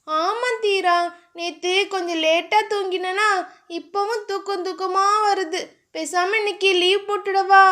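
a hint of a drowsy girlfriend asking to skip work; lightly voiced sleepy heroine; young woman, sleepy and coaxing. Dhiya voiced by narrator.

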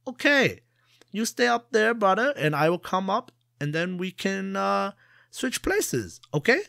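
high, loud eager merchant shout; yelling back. Acted. Merchant yells up to Jia agreeing to swap places, high eager shout. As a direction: shout up the tree, keen to switch. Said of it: "he yelled back at Jia".

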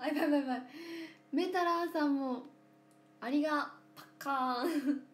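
overwhelmed by a big gift; excited squeal. Real, not acted. Streamer reacting to a huge gift, loud and excited.

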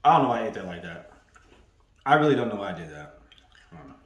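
talking with a mouthful of cookie; mouth full. Real, not acted. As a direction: chew and talk at once. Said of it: "I just talked my mouth full".

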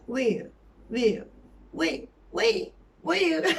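"were" swallowed, quick and weak; reduced were. Shown as a demonstration. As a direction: mumble "were" as a filler. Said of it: "daha hızlı geçer".

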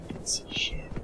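breathy unvoiced whisper. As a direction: hiss it like a secret threat. Whispered retake of line 48.

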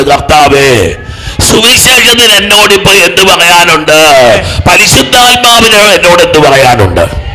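loud, high preaching at full force; fervent preaching. Acted. Preacher rousing the congregation, loud and high. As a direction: build the crowd up, each line hammered.

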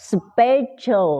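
"special" with a high first syllable, schwa ending; schwa pronunciation. Shown as a demonstration. Teacher pointing out the schwa, demonstrated pronunciation. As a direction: punch "spe" in "special", let the end relax to schwa. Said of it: "ออกเป็นเสียงชวานะ".

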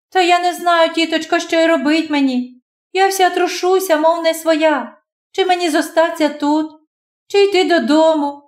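put-on high young girl's voice, shaken by the storm; frightened girl. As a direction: tumble out the words in fright.

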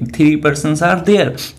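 "Three persons are there" drawn out very slowly, word by word; slow, deliberate classroom dictation; slow model sentence. Shown as a demonstration. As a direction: dictate it slowly for students to copy. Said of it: "तो आप क्या बोलेंगे?".

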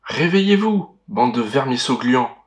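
hint of a booming witch voice; cavernous voice. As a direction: growl it like a hollow cave. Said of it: "gronde-t-il d'une voix caverneuse".

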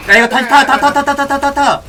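loud, rapid urging of teammates; urgent shouting. Real, not acted. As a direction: yell at them to go. Urgent shouting during fight.

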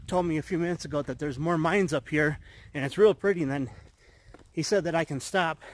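breathless from the climb; winded, catching breath between phrases. Real, not acted. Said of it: "Sorry, I'm out of breath".

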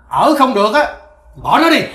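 father laying down the law in anger; dismissive angry father; angry order. Acted. Father angrily orders son divorce.

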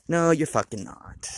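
slow, loud, emphatic no; loud retort. Real, not acted. Scolding his own excuse about quitting, loud and slow. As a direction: slam the denial down, slowly. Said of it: "retorting to himself, loud".

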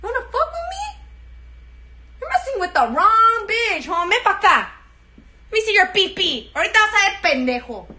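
put-on high, loud Chicana chola accent. Chola picking a fight, loud Chicana accent. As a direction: get in their face like a tough chola. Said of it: "Do a chola?".

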